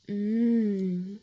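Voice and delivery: long, drowsy hum; sleepy murmur of contentment. A narrator's reading. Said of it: "she said sleepily".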